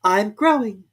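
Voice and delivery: put-on a girl explaining helplessly; high meek girl voice; meek Alice. A narrator's reading. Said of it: "said Alice very meekly".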